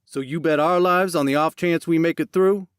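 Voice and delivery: high, loud disbelief; angry accusation. Acted. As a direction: throw the accusation at him. Jackson accuses Max angrily.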